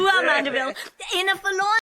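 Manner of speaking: giggling start to a speech; laughing. Acted. Laughing reply.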